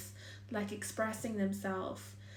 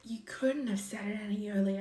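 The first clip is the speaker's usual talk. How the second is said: disbelieving whisper. Retold or imitated. To a lover who spoke up too late, whispered disbelief. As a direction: breathe it out, stunned.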